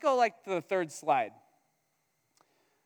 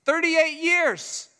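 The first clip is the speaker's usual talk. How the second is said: loud, slow, higher exclamation; exclaimed; 9 semitones higher, 7 dB louder, much slower than usual. Real, not acted. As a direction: drag out the disbelief, loud. Preacher exclaiming in disbelief.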